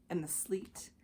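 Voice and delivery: whispered sleet; hushed wintry whisper. A narrator's reading. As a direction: breathe it out as a whisper. Winter narration.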